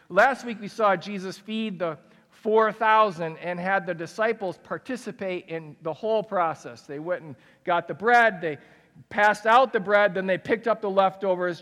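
normal talking voice

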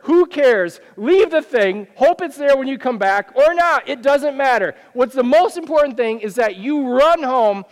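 a hint of Jesus insisting, push him home; urgent Jesus voice. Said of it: "Jesus says".

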